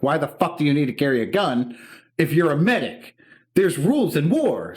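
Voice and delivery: loud, high-pitched incredulous protest; hysterical retold outburst. Younger self pleading with enlisted brother about the gun, hysterical outburst. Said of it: "I'm just sobbing and sobbing and sobbing".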